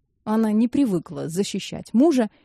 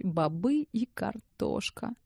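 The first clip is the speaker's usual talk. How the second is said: sad; 9 dB quieter, slower than usual. A narrator's reading. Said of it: "печально подумал Арчи".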